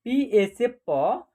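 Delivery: पीए and डीएच read out slowly for the class; slow spelling. Shown as a demonstration. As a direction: slowly build प and ढ from their letters. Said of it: "पढ़".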